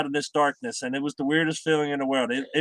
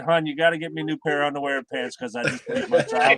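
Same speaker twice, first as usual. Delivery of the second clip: laughing while retelling; 2 semitones higher than usual. Retold or imitated. Telling his wife he needs new pants, laughing. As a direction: quote to the wife broken up by laughter. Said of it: "I was laughing so hard".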